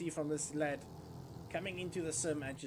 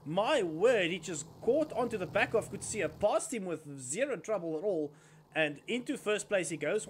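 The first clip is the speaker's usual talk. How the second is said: rising excited race call, louder and higher; motorsport commentator; 3 semitones higher, 4 dB louder than usual. Real, not acted. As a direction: call the overtake with building excitement. Live kart race overtake call.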